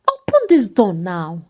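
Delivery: a touch of boom, demanding the door open. A narrator's reading. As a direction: drunk husband bangs at the door, lightly booming. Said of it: "Ifeanyi's voice boomed".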